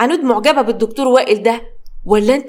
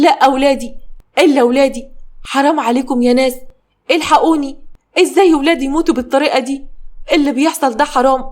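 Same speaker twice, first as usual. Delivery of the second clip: mother screaming; 2 semitones higher than usual. Acted. Mother screams over her dead children, anguished. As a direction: wail for her lost children. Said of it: "تصرخ صابرين بأعلى صوتها".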